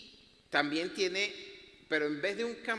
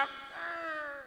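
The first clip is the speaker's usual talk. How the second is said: mock groan; 11 semitones higher, 5 dB quieter than usual. Imitates his own past dismay.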